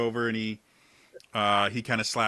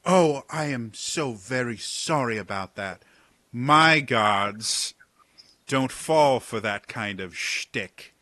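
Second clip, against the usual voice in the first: smarmy captain; 2 semitones higher, 5 dB louder, much slower than usual. Acted. Captain apologizes after arrows.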